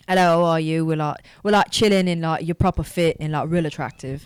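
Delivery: slangy British accent demo. Shown as a demonstration. Showing the host her British, slangy British accent. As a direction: put on a chatty British accent. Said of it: "Let me see your British".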